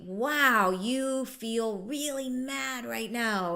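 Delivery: slow, drawn-out mock empathy; slow exaggerated empathy; acknowledging tone. Shown as a demonstration. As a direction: stretch it out like a patient rep. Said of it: "have somebody say".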